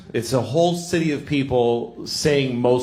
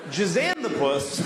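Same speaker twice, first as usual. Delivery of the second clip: slowed name with a laugh; 5 semitones higher than usual. Acted.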